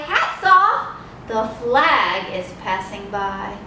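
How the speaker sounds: rhythmic picture-book read-aloud; animated storytime rhyme. Real, not acted. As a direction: read it with a marching drum-beat lilt. Reads picture book aloud to children.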